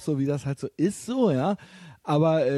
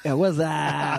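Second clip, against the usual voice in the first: shouted greeting; much slower than usual. Pretend. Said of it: "bei einem Sänger".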